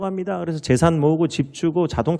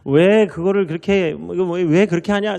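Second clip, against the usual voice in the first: scolding coach; 3 semitones higher than usual. Retold or imitated. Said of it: "이 축구 선수를 혼내는 거예요".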